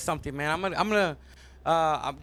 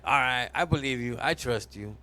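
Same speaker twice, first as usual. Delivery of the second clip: lower, gentle giving-in; trusting; 5 semitones lower than usual. Acted. Heart agrees to open the door, trusting. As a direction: soften and drop the pitch, believing him.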